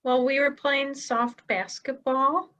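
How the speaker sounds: a hint of a nervous kid owning up; kid confessing to parents. Kid tells Mom and Dad about school, nervously hesitant.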